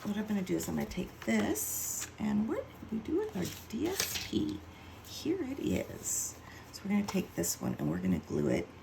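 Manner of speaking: talking around a pin in the mouth; mouth full. Real, not acted. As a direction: speak with a pin between the lips. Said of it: "that pin in my mouth".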